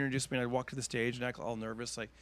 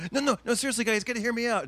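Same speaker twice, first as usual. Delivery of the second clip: much higher, loud desperate pleading; pleading over boos; 11 semitones higher, 6 dB louder than usual. Retold or imitated. Bombing teen comic begs booing crowd, loud high plea. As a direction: beg the crowd to listen.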